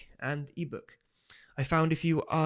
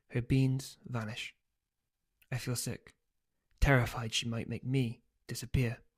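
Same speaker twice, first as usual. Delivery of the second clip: story narration. A narrator's reading. Author reads novel aloud.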